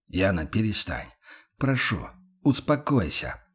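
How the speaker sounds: softened, reassuring plea; calm her down quietly; gentle soothing. Acted. Max begs weeping Yana to calm down, gently. Макс мягко успокаивает плачущую Яну.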